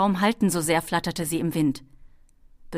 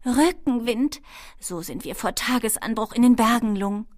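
higher kobold voice, raised at the start; kobold girl calling; 5 semitones higher, 4 dB louder than usual. A narrator's reading. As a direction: call the good news up to the dragon. Kobold calls to dragon in flight.

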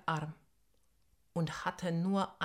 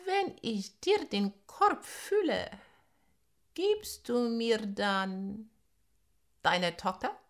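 slow hypnotic serpent hiss; 4 semitones higher, 4 dB louder than usual. Acted. Snake bargains for the daughter.

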